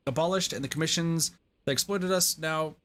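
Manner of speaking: talking through hiccups; words broken by hiccups. Real, not acted. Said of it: "I'm hiccuping a ton".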